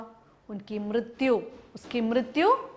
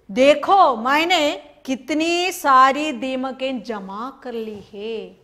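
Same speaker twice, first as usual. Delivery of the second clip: brighter, louder bird's plea; eager bird showing off; 4 dB louder, slower than usual. Acted. Bird eagerly shows the cart driver its termites, louder eager plea. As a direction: show off the pile of termites eagerly.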